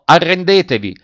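high, loud demand; thundering shout. A narrator's reading. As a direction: thunder out an order to the enemy. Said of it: "una voce tonante gridò".

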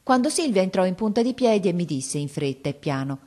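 steady reading-aloud voice; story narration. A narrator's reading. Narrator reading a children's book aloud. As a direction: tell it like a storybook.

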